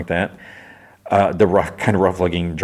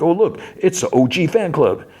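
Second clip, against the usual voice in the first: much higher, put-on character voice; Sweet Tooth; 11 semitones higher than usual. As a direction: play a showy figure hailing people from afar. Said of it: "Sweet Tooth and Stu arrive".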